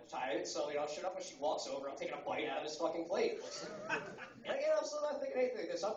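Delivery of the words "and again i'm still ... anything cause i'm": higher, laughing through the words. Real, not acted. Comic amused by his own dinner story, laughing. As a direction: giggle as you say it.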